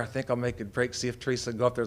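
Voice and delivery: soft scheming dog voice, lightly done; a hint of a sly little dog; sneaky dog thoughts. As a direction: plot the escape under your breath. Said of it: "one of 'em looks up there".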